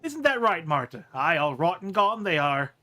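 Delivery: lightly voiced muddled self-talker; Marta. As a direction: ask yourself, then agree firmly. Marta asks and answers herself.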